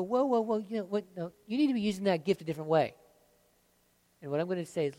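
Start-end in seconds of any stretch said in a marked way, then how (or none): 0.0-2.9 mock objection. Acting a critic who cuts in.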